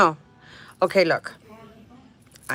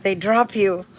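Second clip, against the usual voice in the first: higher, breaking up with laughter; laughing retelling; 5 semitones higher than usual. Real, not acted. Retelling what he said about being dropped, laughing. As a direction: laugh helplessly through the quoted punchline.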